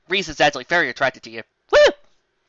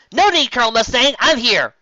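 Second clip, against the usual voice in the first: higher, louder proud announcement; hammed-up heroic entrance; grand entrance; 8 semitones higher, 6 dB louder than usual. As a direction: announce yourself with a flourish.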